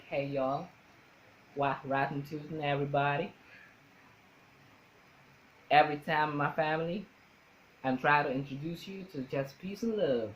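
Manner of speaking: imitated American Southern accent. Shown as a demonstration. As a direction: put on a Southern y'all accent. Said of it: "sometimes from the South".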